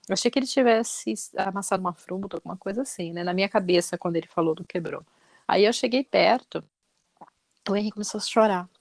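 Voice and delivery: usual speaking voice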